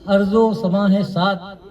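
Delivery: measured Urdu verse delivery, falling line ends; poetry recitation. Acted. Poet reciting his couplets to a mushaira audience, measured recitation. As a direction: recite the couplet in set phrases with pauses.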